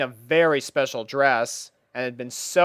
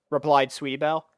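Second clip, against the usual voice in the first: ordinary delivery, nothing marked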